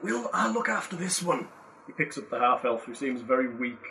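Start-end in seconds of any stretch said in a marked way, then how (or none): 0.0-1.5 put-on Scottish accent. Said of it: "Which character are you supposed to be now".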